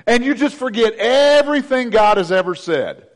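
usual speaking voice

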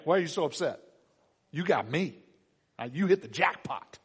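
a hint of a self-satisfied husband consoling; clueless husband. Husband telling his sad wife he is enough, mildly smug. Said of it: "he just gives her that wonderful life advice".

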